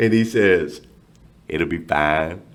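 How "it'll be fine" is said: put-on very low, deep Louisiana accent. Retelling what Damien tells his staff when things go wrong; Louisiana accent. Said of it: "he's got this Louisiana accent".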